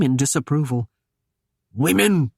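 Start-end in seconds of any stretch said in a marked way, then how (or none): 1.7-2.3 snorted. A narrator's reading. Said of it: "he snorted".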